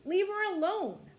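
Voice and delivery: high, very loud demand; protective yell. A narrator's reading. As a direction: yell it to defend someone. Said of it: "he kept shouting".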